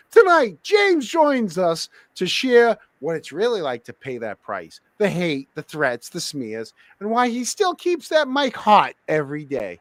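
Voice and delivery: slow, weighty announcer read; show intro voice. Shown as a demonstration. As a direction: introduce the guest like a TV host. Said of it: "There's your opening".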